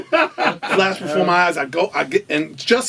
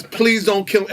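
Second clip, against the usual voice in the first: mildly acted begging, pitched up; slightly raised retold plea; pleading; 4 semitones higher than usual. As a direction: imitate someone begging for mercy. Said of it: "pleading with his brother not to kill him".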